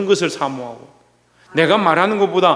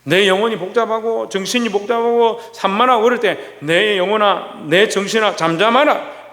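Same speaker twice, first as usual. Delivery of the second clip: calm self-command. Shown as a demonstration. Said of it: "명령해야 되는 거예요".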